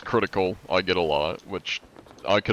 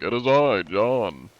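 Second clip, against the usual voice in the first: grand, formal self-introduction, a bit louder; fancy voice; 2 semitones higher, 4 dB louder, slower than usual. Shown as a demonstration. Streamer showing chat his fancy John voice, grandly. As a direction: announce yourself like a gentleman. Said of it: "when I'm talking fancy".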